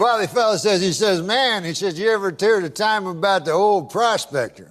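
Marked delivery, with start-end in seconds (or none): 1.2-4.7 Southern drawl. Retold or imitated. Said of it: "That's how he talks".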